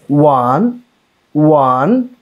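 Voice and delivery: "one" held with a rounded w onset, rising; teacher's isolated, lifted "one"; pronunciation demonstration. Shown as a demonstration. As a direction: draw out "one" from rounded lips. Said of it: "If we pronounce".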